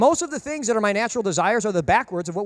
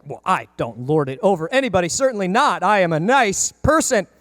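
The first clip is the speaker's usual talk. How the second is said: mock prim, self-satisfied voice; smug denial. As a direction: play the nice person who lords it over nobody. Mock self-righteous listener.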